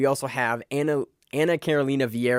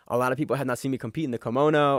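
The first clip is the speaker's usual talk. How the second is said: put-on Brazilian accent; faster than usual. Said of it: "using a Brazilian accent there".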